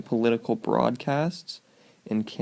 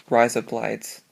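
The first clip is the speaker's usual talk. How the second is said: quick Australian; slower than usual. Shown as a demonstration. Showing the mnemonic, said quick in Australian. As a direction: run it together fast like an Australian accent. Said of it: "you say that quick".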